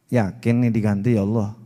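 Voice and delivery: nada rendah, ragu-ragu; meragukan. Retold or imitated. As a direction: tanyakan dengan curiga. Meniru orang ragu pada Allah. (orang yang ragu akan ganti dari Allah)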